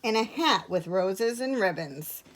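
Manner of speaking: measured picture-book narration with long pauses; clear, unhurried storytelling; story reading. A narrator's reading. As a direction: read it to young children. Reads a picture book to children.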